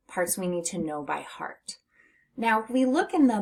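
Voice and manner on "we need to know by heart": whisper. Acted. Teacher aside.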